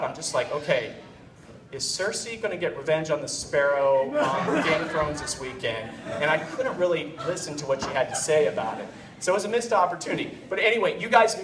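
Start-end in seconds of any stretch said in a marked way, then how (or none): 0.5-5.9 low, tuned-out musing; checked out. Retold or imitated. Husband half-listening to his wife, checked out. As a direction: let the mind drift, voice dropping away. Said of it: "just checked out".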